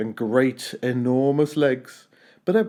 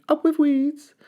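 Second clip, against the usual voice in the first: high, hooting dinosaur chant; high cheerful duckbill hoot; 14 semitones higher, slower than usual. A narrator's reading. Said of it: "they hooted".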